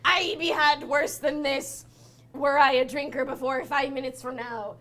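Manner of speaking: lightly voiced pirate gnome; a touch of drunken pirate swagger; boastful pirate talk, lightly played; barbarian gnome pirate.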